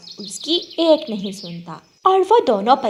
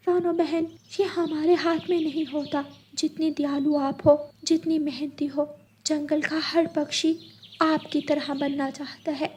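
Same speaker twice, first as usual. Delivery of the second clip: comforting parrot; 5 semitones higher, 4 dB quieter than usual. Acted. Parrot comforting crying friend.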